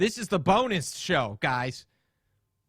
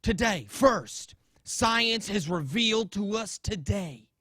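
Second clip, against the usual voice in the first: Bill Nye impression. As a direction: play a TV science guy lecturing the audience. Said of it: "I can't do this voice forever".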